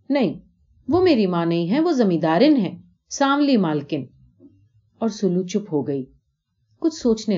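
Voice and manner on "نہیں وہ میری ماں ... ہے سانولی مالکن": put-on a child stubbornly correcting her father; insistent little girl. Salu insists to her father the lady is not her mother, firm child voice.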